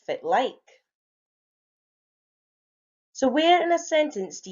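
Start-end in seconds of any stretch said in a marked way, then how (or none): 0.0-0.8 casual Doric Scots greeting. Shown as a demonstration. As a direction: say it like a north-east Scot. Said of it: "if you want to do the Doric version".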